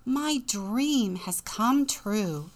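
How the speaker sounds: slow, savoured wonder; delighted Jack. Acted. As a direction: relish the dream as happy Jack. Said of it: "said Jack".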